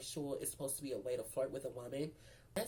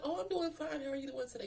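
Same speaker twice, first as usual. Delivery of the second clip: very high-pitched greeting voice; high customer-service style hello; put-on polite greeting; 11 semitones higher than usual. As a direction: lift the voice high and hold it there. Retold greeting to a new hire.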